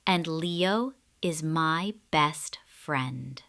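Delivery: soft, slow whisper; blushing mouse whispering about her friend; shy whisper. Acted. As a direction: whisper it bashfully.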